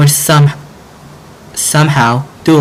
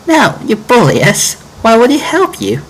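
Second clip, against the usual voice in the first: put-on girl's refusal; 11 semitones higher than usual. Girl refusing the bully's request, scornful higher voice.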